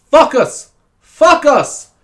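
put-on loud, high German-accented FOCUS, said "fuck us". German teacher answering student in crisis, loud accent. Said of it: "so she'd say focus".

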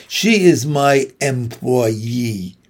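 very slow, deliberate gruff man's voice; stiff librarian. Acted. Librarian introduces his employee, a touch of stiff gruffness. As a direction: lay it out slowly and stiffly.

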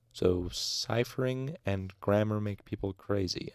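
"So ciphering and grammar make people crazy" as a statement, no questioning rise; phrased as a statement. A narrator's reading. Student offering his conclusion, "make people crazy" phrased as a statement. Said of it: "phrase it as a statement".

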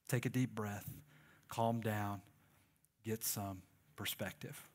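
a hint of God as a tender father; God's gentle voice. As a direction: speak as a patient father calming his child. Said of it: "God looks down at us and he just thinks".

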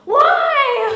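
very high, very loud drawn-out cry; wailed protest. Retold or imitated. Husband is returning the furniture, wife wails in protest. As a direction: wail it in mock dismay.

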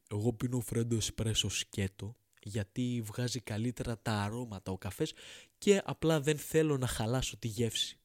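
lightly voiced snobbish connoisseur; coffee snob. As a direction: mimic a smug coffee purist. Imitating freddo espresso snob.

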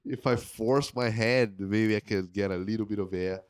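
straining air through a stuffed nose; blocked nose. Real, not acted. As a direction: speak with a congested nose. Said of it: "I can't breathe too much".

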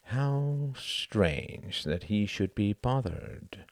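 slow, musing inner thought; wondering thought. Acted. Cuthbert privately puzzled by Sam's irritation, slow and musing. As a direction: think it through slowly to yourself. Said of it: "thought Cuthbert".

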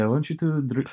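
put-on halting Spanish accent, breaking off; Rafael Nadal. Friend retries the burrito phrase amid giggles, halting Spanish accent. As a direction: try the Spanish accent and falter. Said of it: "I'm just thinking of Rafael Nadal here".

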